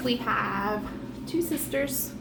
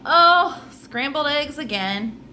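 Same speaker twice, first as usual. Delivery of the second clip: mild; 4 semitones higher than usual. Acted. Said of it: "He said mildly".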